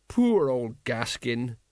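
mournful. Acted. Mourning fallen comrade.

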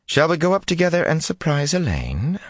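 ice in every word; cold voice. A narrator's reading. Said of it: "long and cold as her voice".

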